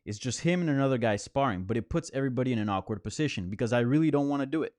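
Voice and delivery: light put-on New York accent; quoting a coach in a New York accent. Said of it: "That, that was my fake, uh, New York accent".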